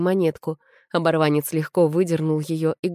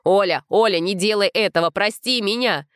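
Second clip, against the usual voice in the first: yelling; 4 semitones higher than usual. A narrator's reading. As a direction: yell her name while struggling. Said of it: "заорал Костик". (отчаянный крик)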